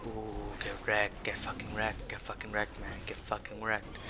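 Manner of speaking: muttered gloating. Real, not acted. Gloating chant under breath.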